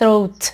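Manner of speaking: throat, tongue between the teeth on "th"; throat with a careful interdental start; dental th. Shown as a demonstration. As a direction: model the "th" in throat clearly. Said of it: "حتما باید زبونتون رو بذار بین دندون".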